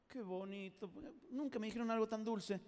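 soft mock-touched reply; enternecido fingido. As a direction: coo as if the insult were sweet. Acts being flattered by insults. (ternura fingida)

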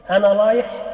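لايح repeated with l for r; lisp r as l. Shown as a demonstration. Teacher repeats the child's lisp: r as l. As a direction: demo لايح, l in place of r. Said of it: "أبدلت الراء لاما".

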